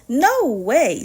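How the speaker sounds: loud flat no; firm refusal. Acted. Farmer Brown refusing the cows, loud and firm. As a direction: slam the door on it. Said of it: "said Farmer Brown".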